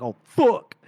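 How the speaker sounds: dismayed underlings. Acted. Underlings hearing the Duke's invitation, mock dismayed. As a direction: blurt it as a comic realisation of trouble. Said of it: "Langria and Pella were like".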